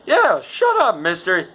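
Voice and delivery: high, loud mock-tough taunts; hammed-up bar brawl bluster; drunk brawler. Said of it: "I said".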